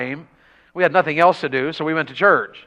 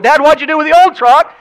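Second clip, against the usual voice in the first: mock surprised son; 11 semitones higher, 7 dB louder than usual. Son asking dad in story.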